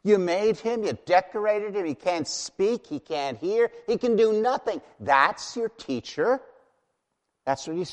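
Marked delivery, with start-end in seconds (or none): 0.0-4.8 mocking taunt, higher and louder; God taunting idol-makers, scornful and raised. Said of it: "you hear the mocking in his voice". 5.0-6.4 slow scornful "That's your teacher?" with a rise; God mocking the idol-maker, slow and scornful; mocking question. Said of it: "you hear the mocking in his voice".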